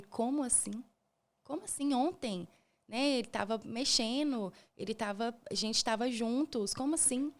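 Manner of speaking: understated, pleading bewilderment; reliving shocked incomprehension; retold disbelief. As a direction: question the news, pitch lifting on the repeats. Revive o choque da notícia.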